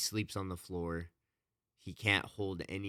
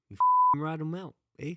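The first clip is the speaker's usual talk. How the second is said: much higher and louder mock Canadian; hammed-up Canadian; 10 semitones higher, 10 dB louder than usual. Host finishes the moose joke in a loud mock Canadian accent. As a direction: overdo the Canadian "eh". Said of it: "we're doing it right at all".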